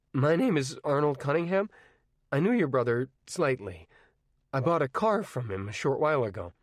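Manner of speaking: lightly voiced polite teenage boy; a hint of a nervous, courteous teenager; Arnie, polite teen. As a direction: raise the voice a touch, eager and polite. Arnie speaks to LeBay.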